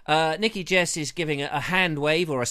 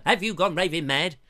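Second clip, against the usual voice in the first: Hancock quote. Retold or imitated. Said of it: "Hancock's half hour".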